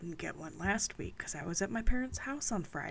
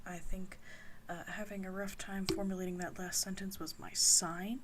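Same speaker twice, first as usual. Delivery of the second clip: whispering. Real, not acted. Late-night ASMR whispered chat.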